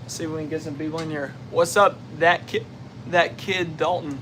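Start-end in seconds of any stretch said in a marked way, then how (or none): 1.5-4.2 greeting cut by a hiccup; hiccuping mid greeting. Real, not acted. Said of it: "Sorry, I got the hiccups right now".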